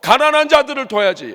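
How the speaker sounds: loud, insistent reproach; indignant Judas Iscariot. Acted. Preacher acting Judas leading the complaint for the poor, loud indignation. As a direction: press it as a righteous demand. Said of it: "가룟 유다는 앞장서서".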